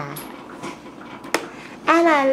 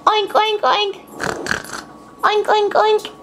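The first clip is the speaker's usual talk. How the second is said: playful higher oinking; pig oink; 5 semitones higher than usual. Shown as a demonstration. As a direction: oink like a piglet for the baby. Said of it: "Do it".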